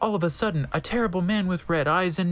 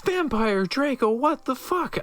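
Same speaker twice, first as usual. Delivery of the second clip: shocked question; 8 semitones higher than usual. A narrator's reading. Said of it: "I asked".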